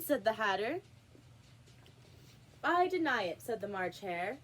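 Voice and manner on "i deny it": indignant denial. A narrator's reading. March Hare denies.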